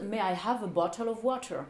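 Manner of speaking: British English with crisp T's in bottle and water; polite question in a British accent. Retold or imitated. Customer asks the waitress for water, British accent. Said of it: "avec mon accent, euh, britannique".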